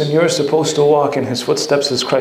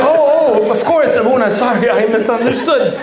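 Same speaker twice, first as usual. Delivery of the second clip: flustered eager answer; 7 semitones higher than usual. Retold or imitated. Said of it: "So I'm like".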